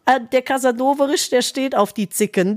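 put-on lightly doting old lady. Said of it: "Das hat sie gesagt".

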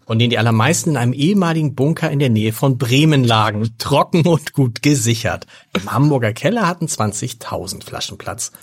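steady book reading voice; reading aloud. A narrator's reading. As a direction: read the passage like an audiobook. Reads book passage aloud.

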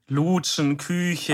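"Lutschen, Küche" with stretched first vowels; long first vowels. Retold or imitated. Imitating co-host's drawn-out words, long first vowels. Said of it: "du ziehst es so ein bisschen lang nach vorne".

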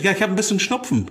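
blocked nose from a cold; stuffy nose. Real, not acted. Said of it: "Das hört man doch".

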